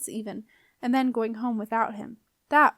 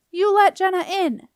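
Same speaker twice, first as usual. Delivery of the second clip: high, loud angry demand; yelling; 9 semitones higher, 10 dB louder than usual. A narrator's reading. Boy ordering the doorkeeper to admit the girl, yelling. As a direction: shout it as an order. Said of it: "yelled Beetle".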